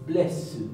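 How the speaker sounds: blessed with the final S drawn out and clearly heard; audible double S. Shown as a demonstration. Teacher showing Icelandic double S, S clearly sounded. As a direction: let the SS in blessed hiss on. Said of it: "podrán escuchar que la S se escucha".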